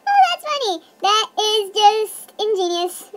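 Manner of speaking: high, loud, laughing through the words; real laughing. Real, not acted. Vlogger cracking up at a camera effect, laughing. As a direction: burst out laughing as you say it.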